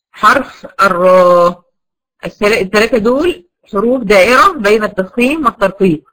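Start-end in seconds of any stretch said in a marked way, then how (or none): 0.1-1.7 slow, stretched naming. Shown as a demonstration. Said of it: "الألف المادية، لام لفظ الجلالة".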